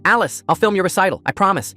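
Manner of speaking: high, loud yell. Acted. Brother led away by police, yelling. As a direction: yell after her as he's dragged off. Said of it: "he kept yelling".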